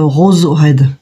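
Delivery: "rose red" said with a light French accent. Shown as a demonstration. Reading an English paint name aloud to viewers, in a French accent. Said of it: "Avec l'accent français".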